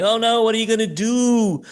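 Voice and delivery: high hammed-up wailing worry; mock panicked relatives.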